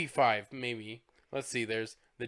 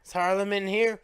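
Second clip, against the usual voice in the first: cocky demand; 7 semitones higher, 5 dB louder than usual. Retold or imitated. Acting out thug at desk.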